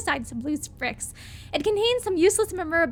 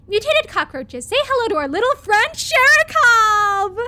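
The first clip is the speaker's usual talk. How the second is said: slow booming hero intro, louder at the end; dramatic announcer; 7 semitones higher, 7 dB louder than usual. Pretend. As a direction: hype it like a movie line, drawn out on the name. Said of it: "sorry, mutated cockroaches".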